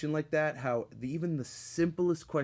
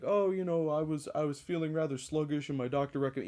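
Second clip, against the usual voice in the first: mock reviewer; 2 semitones higher than usual. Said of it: "that kind of bullshit".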